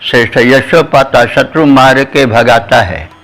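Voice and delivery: measured verse recital, each line repeated; poem recitation. Acted.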